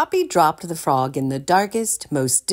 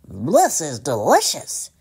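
mouth full; 4 semitones lower than usual. A narrator's reading. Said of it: "he cried between mouthfuls".

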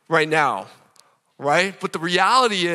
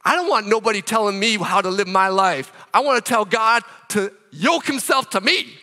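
mock defiance; 3 semitones higher than usual. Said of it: "North America is gonna come up to me later and say".

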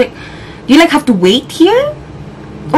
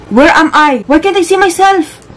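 high, panicked questions; panicking; 5 semitones higher than usual. Real, not acted. Player who cannot see herself in the game, panicking. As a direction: pitch climbing in panic. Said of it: "I am panicking".

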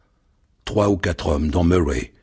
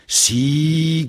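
growled; 11 semitones higher than usual. Acted. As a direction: snap it back angrily. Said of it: "gronda le marin".

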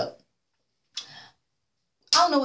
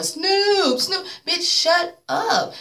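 mock bullhorn yell; 9 semitones higher, much slower than usual. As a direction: blare it like a broken bullhorn. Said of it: "A broken bullhorn".

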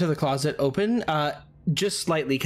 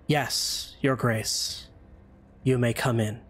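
automatic reply; 3 semitones lower than usual. Acted. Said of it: "almost automatically".

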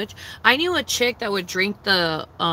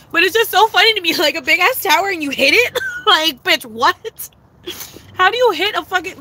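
louder, higher, giggly disbelief; laughing at the silly crash; 7 semitones higher, 3 dB louder than usual. Real, not acted. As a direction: laugh while you can't believe it. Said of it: "I shouldn't be laughing".

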